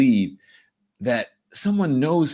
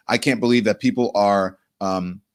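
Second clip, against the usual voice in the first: mad shop owner; 3 semitones lower than usual. Retold or imitated. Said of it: "And he was mad".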